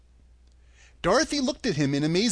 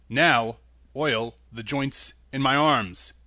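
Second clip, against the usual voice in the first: Tin Woodman voice; 3 semitones lower, slower than usual. Acted.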